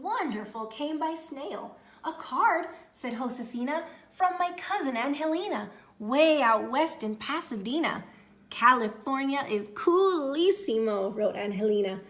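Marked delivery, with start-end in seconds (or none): 2.0-2.7 high, loud and thrilled; excited. Acted. Excited girl. 4.1-8.0 high and loud excitement; excited. Acted. Excited girl. 8.5-11.1 put-on loud, high valley girl; bubbly cousin. Cousin's card voice.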